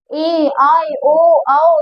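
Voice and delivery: ए, आए, ओ, आओ each held long; long vowels. Shown as a demonstration. Teacher listing long vowels, ए, आए, ओ, आओ drawn out. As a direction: stretch each of ए, आए, ओ, आओ. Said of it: "इनमें थोड़ा ज्यादा बोलना पड़ता है".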